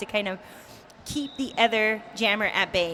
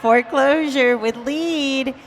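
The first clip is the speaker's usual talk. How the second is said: excited play-by-play; 3 semitones higher, 6 dB louder than usual. Real, not acted.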